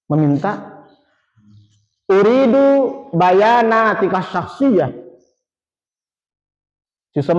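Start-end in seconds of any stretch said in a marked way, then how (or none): 2.1-4.9 slow, lifted opening on "Uridu"; request intonation. Shown as a demonstration. Teacher modelling an employee's request for the students, slowly. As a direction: make the request slowly and clearly. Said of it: "Jadi intonasinya seperti itu".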